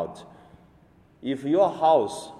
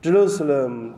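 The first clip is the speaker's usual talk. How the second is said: loud lament; 3 semitones higher, 6 dB louder than usual. Acted. Lament, repeated name.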